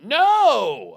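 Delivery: high, loud, drawn-out no; shouted refusal. Retold or imitated. Imitating a girl refusing him in bed, shouted refusal. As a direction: burst out in appalled mock refusal.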